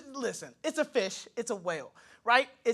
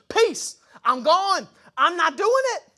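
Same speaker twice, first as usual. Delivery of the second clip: slow, higher, dismissive kiss-off; breezy refusal; 7 semitones higher, 5 dB louder, slower than usual. Pretend. Jonah brushing off God's call to preach, mock dismissive. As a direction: wave God off and walk.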